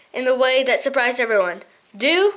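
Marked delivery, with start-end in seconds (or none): 1.9-2.3 cried. Acted. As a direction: fling the word back at them. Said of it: "he cried".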